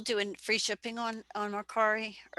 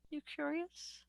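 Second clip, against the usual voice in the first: teasing put-on voice; 7 semitones higher, 13 dB quieter than usual.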